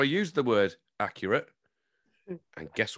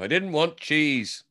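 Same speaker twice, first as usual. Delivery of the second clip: mock complaint; 6 semitones higher, slower than usual. Joins in the angry bit.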